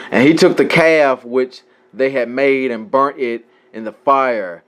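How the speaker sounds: measured reading aloud from scripture. Acted. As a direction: read the verse out in a steady recital.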